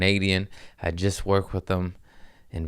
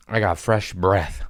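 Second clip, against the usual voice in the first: whispered slow I got fresh breath; slow smug whisper; breathy gloat. Pretend. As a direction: hiss it out with satisfaction. Gloating over fresh mints.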